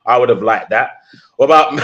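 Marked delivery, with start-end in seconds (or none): 1.3-1.7 stifling a laugh; words breaking into a giggle; trying not to laugh. Real, not acted. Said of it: "I'm trying not to laugh".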